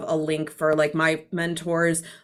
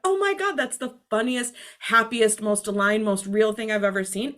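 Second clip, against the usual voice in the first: delighted gush; 3 semitones higher than usual. Retold or imitated. Gushing over a funny meme.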